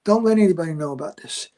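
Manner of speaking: desperate prayer. Retold or imitated. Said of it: "and I'm saying".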